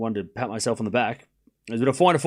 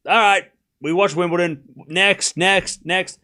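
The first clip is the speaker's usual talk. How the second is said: brushing it off; 5 semitones higher, 4 dB louder, slower than usual. Retold or imitated. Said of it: "I'm always just like".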